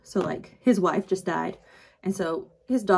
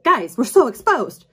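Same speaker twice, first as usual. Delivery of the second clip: panicked; 7 semitones higher, 8 dB louder than usual. Acted. Character panics under open sky.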